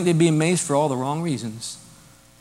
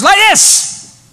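much higher and louder, crying out; loud cry demo; 8 dB louder than usual. Shown as a demonstration. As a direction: show the congregation how loudly he cried out. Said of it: "Loudly cry out".

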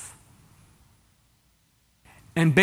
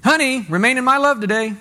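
mock spouse talk; 4 semitones higher, 4 dB louder than usual. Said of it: "said something like this".

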